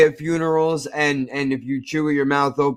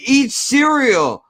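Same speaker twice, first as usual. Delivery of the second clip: incredulous high pitch; 9 semitones higher than usual. Real, not acted. Incredulous about friend eating.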